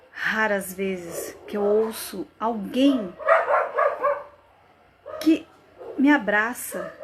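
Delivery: earnest plea, broken by long pauses; pleading dramatic monologue. Acted. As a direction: plead to be heard, phrase by phrase. (súplica encenada, pausada)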